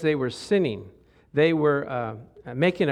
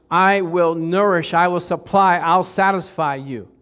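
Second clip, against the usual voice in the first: emphatic God; 6 dB louder than usual. Retold or imitated. God voiced, slow emphatic.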